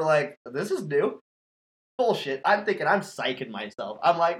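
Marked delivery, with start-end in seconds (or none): 0.4-1.2 unfazed, even remark; understated retold calm; cool as a cucumber. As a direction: stay casual about something bizarre. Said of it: "Just cool as a cucumber".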